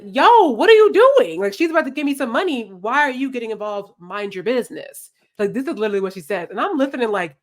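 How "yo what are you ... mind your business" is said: indignant high retort. Retold or imitated. Girl snapping at the friend who stopped the money, loud and high. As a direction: scold her for butting in.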